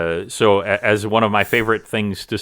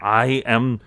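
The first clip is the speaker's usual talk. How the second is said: halting, stammered warning, pitched up; cowering cultist; 3 semitones higher than usual. Acted. Intimidated cultist warning his captors, stammering then pompous. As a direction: start small, then warn them with self-importance.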